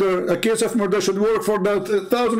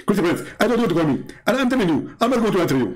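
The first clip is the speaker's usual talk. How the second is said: mock Zakir Naik, fast; 2 semitones higher, faster than usual. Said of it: "Zakir Naik will answer with high speed".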